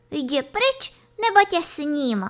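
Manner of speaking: put-on high, upset kid-goat threat; agitated, plaintive order. A narrator's reading. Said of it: "rozčileným naříkavým hlasem". (rozčileným naříkavým hlasem)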